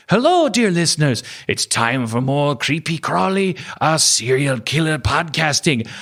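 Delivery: high, cheery host greeting, slowing at the end; playful imitation of a host answering his reviews; Norwegian podcast host impression. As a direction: ham up the apologetic Norwegian host. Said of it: "he was like".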